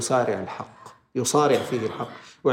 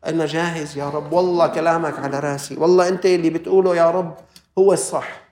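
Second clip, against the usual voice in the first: devout obedience. Retold or imitated. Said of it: "لازم تقول له".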